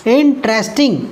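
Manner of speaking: इंटरेस्टिंग in measured beats, इन, ट्रेस, टिंग; three syllables. Shown as a demonstration. Teacher counting syllables, इंटरेस्टिंग in three beats. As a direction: break इंटरेस्टिंग into three parts. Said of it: "तीन syllable का है".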